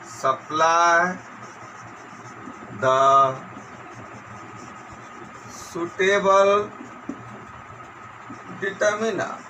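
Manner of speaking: slow word-by-word dictation; measured classroom dictation. Shown as a demonstration. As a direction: dictate with long gaps, each word drawn out level. Dictates homework instruction.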